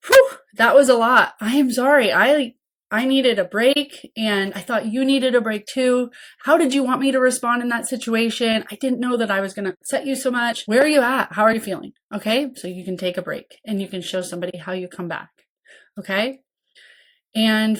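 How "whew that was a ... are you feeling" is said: gentle apology. Retold or imitated. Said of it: "go back to the relationship and say".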